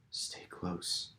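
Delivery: hushed warning whisper. A narrator's reading. Charlie warning Anne in the dark, whispered. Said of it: "he whispered".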